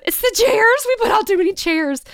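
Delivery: high, loud, wailing sob-voice, imitating herself crying; retold sobbing. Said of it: "just sobbing".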